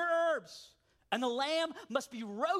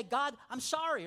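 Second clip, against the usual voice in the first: casual apology; 4 semitones higher than usual. Retold or imitated. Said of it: "just say".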